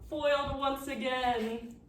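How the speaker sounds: slow, lightly voiced cartoon villain; Doofenshmirtz-style villain. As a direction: drawl it like a defeated cartoon baddie. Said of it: "very Doctor Doofenshmirtz-esque".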